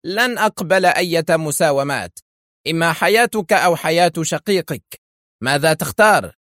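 high, edgy ultimatum; nervous cry. A narrator's reading. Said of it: "فقد هتف في عصبية". (هتاف عصبي)

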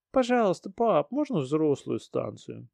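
put-on high child's voice; excited little girl. Daughter begs dad.

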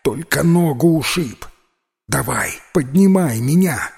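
put-on a touch of boyish firmness; demanding. Миха требует поднять его, стараясь говорить твёрже. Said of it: "потребовал Миха".

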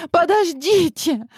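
high, drawn-out cry; shout. A narrator's reading. Girl crying out to her captors, high desperate cry. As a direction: stop them, desperate. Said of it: "закричала она".

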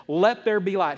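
firm divine decree; a touch of God's commanding voice; not passive, commanding. Retold or imitated. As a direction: declare it with some authority. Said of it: "didn't say it in some little passive little poetry voice".

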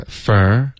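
"fur" slowly with a full open vowel. Shown as a demonstration. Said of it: "嘴巴都需要张开". (“fur”张嘴慢读，元音饱满)

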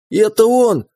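high, loud fake-tearful shriek pointing at him; screaming accusation. A narrator's reading. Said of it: "заорала она". (громкий пронзительный крик обвинения, с показными слезами)

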